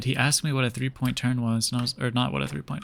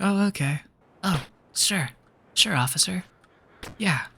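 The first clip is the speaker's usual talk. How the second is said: higher-pitched, placating agreement; meek compliance; 6 semitones higher than usual. Retold or imitated. Student humouring the examiner, meekly compliant.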